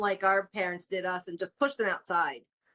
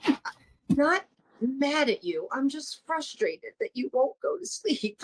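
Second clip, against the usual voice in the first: higher, slow and defensive; defensive mom; 7 semitones higher than usual. Retold or imitated. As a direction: protest that you're not mad. Mom retells her reply.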